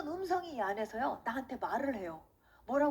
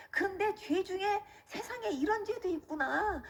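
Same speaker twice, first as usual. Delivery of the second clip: tearful realization; 4 semitones higher than usual. Retold or imitated. Weeping convert realizes God is real, re-enacted plaintive lament. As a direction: let each realization trail out in a plaintive stretch. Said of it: "우는 가운데 무슨 생각이 드냐면".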